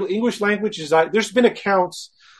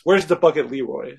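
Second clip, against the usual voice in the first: goblin voice; 3 semitones lower than usual. Retold or imitated. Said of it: "in that weird goblin voice".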